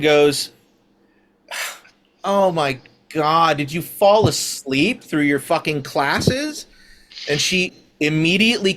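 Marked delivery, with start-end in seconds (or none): 2.2-6.7 scoffing. Acted. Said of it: "scoff laughs at you".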